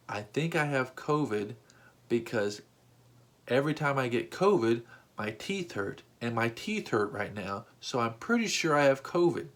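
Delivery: nonchalant. Retold or imitated. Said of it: "He said it so calmly and nonchalantly".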